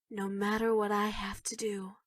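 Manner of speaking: whispered menace; creepy whisper. Acted. Whispering a creepy promise to senpai. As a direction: breathe it out like a threat.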